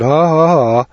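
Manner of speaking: put-on spoken ha-ha-ha of a gloating boy; mock laughter. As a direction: lightly imitate a boy laughing at his trick. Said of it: "the little boy laughed and laughed".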